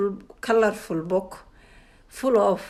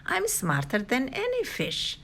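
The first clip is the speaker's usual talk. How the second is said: put-on cocky girl; 6 semitones higher than usual. A narrator's reading. Cheryl's boast in story.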